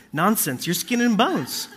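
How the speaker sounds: dismissive doting grandma, laughing; slow, high, scolding grandma; guilt tripping grandma. Retold or imitated. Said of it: "abuelas to just keep hammering you".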